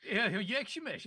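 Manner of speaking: hammed-up Kazakh greeting; comic Kazakh spy accent; mock Kazakh accent. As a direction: badly fake a Kazakh accent. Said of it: "you're a spy from Kazakhstan".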